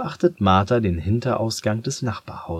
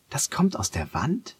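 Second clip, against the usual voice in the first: fragender Gedanke; 6 semitones higher than usual. Acted. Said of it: "denkt sie sich".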